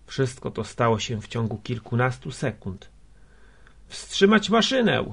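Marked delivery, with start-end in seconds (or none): 3.9-5.1 high, raised cry of alarm; urgent shout. A narrator's reading. Neighbour shouting to stop the machine, urgent shout. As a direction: shout the order as an emergency. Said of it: "krzyknął sąsiad Gosławskiego".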